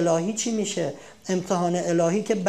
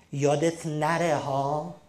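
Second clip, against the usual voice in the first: slow, drawn-out reminder; nagging warning; 4 semitones lower, much slower than usual. Acted. Parent nagging a child not to forget, slow. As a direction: drag out the warning. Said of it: "اتوماتیک داری بهش میگی".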